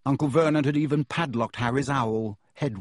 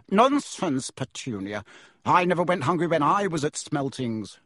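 husband brushing off his wife, hearty; hearty bluster; 4 semitones higher than usual. Acted. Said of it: "said Uncle Vernon heartily".

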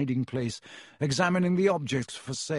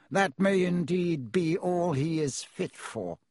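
colder still; 4 semitones higher, slower than usual. Acted. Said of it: "more coldly still".

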